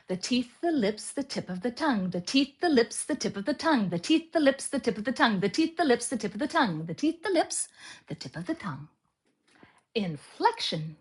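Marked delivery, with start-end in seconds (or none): 2.1-8.9 speeding up. Shown as a demonstration. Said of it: "speed up".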